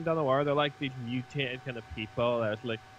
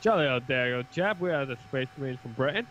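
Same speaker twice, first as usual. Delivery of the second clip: hammed-up posh Englishman greeting; playing a jolly British Space Marine; British accent. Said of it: "A British man".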